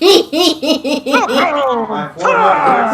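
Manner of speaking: laughing while talking. Real, not acted. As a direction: talk through real laughter. Laughing at bad pun.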